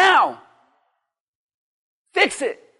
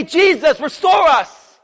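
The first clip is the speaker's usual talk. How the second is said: raised cry for restoration; loud plea; 4 dB louder than usual. Retold or imitated. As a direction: call out the request with force. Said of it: "They didn't say".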